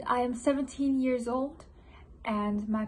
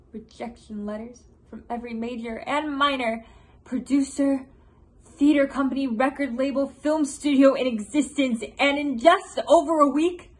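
mounting frustration; 5 dB louder than usual. Acted. Composer listing his many rejections.

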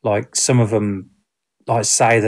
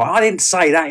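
higher-pitched, mildly indignant imitation; mock irate protest; 6 semitones higher than usual. Film character objecting to UFO witness label, mock irate. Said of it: "he's getting all irate".

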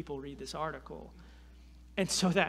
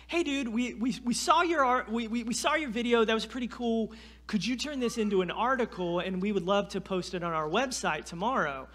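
mock Fox News caller; 4 semitones higher, 3 dB louder than usual. Fox News caller voiced in story.

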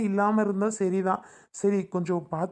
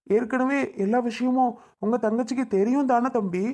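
upset scolding; 3 semitones higher than usual. Acted. Father confronts son-in-law.

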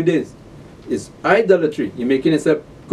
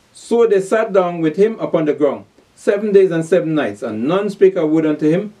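raised, declaimed Bible verse; scripture reading; 4 semitones higher than usual. Acted. Preacher reads of the silent mourners, declaimed scripture reading. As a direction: proclaim the verse to the congregation.

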